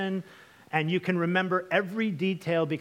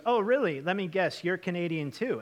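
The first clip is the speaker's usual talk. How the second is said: sarcastic; 3 semitones higher than usual. Retold or imitated. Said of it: "he looks to Benoit and he goes".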